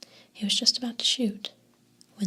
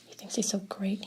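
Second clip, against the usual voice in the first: trembling mutter; 6 dB quieter than usual. Acted. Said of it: "he muttered, his voice trembling".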